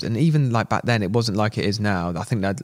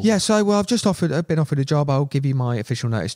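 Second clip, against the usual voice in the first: eager phone voice; 5 semitones higher than usual. Retold or imitated. Phoning boss to announce new job.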